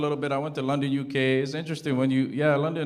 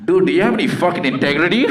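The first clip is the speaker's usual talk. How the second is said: high mock yell of an angry buyer; angry voice note; 8 dB louder than usual. Angry buyer yelling in a voice note. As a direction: shriek it like a furious buyer.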